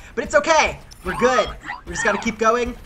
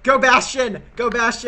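cheering; 3 semitones higher, 5 dB louder than usual. Real, not acted. Cheering on team picks.

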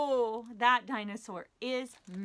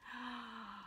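deep breath in; 13 dB quieter than usual. Shown as a demonstration. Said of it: "breathes calmly and then".

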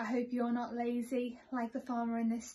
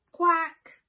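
loud, higher quack; louder duck quack; 6 semitones higher, 14 dB louder than usual. A narrator's reading. Duck answers the farmer, louder each time. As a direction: quack back, fed up and louder. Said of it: "The duck answered".

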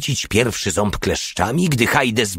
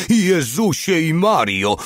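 high, drawn-out exclamation; alarmed cry; 8 semitones higher, slower than usual. A narrator's reading. Mały diving for cover from rockets, alarmed cry. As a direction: cry out higher, stretching the words. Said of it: "krzyknął Mały".

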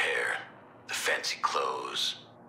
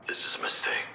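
muttered aside; 4 semitones lower than usual. Acted. Grumbling aside about the Joker.

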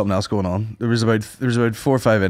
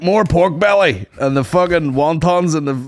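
greedy ordering; 4 semitones higher, slower than usual. Retold or imitated. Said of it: "And he's like".

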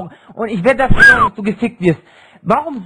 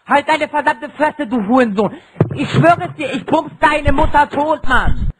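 berserk rage; 4 semitones higher than usual. Real, not acted. Raging teen in voice chat fight.

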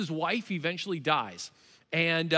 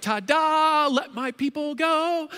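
Moses showing off; 8 semitones higher, 3 dB louder, slower than usual. Retold or imitated. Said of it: "He's like".

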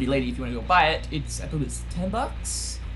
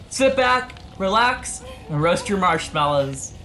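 mock host invitation; 2 semitones higher, slower than usual. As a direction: invite them like a smug host.

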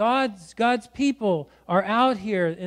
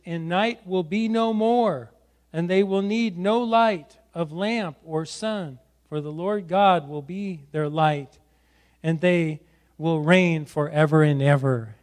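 scripture reading; 2 semitones lower than usual. Acted. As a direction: read the verse out in measured phrases. Reads scripture aloud.

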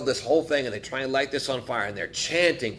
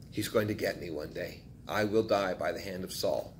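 fearful muttering; 5 semitones lower, 8 dB quieter than usual. Retold or imitated. David's fearful self-talk.

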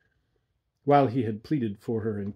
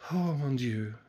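sighing; 3 semitones higher than usual. Acted.

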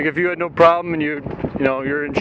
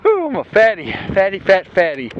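panting after the hill climb; winded, catching breath between words; 4 semitones higher, 3 dB louder than usual. Real, not acted. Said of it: "Sorry, I'm out of breath from that hill".

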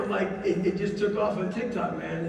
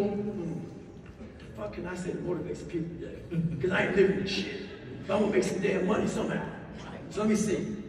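mock scheming speaker; 5 dB quieter, faster than usual. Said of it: "they say to themselves".

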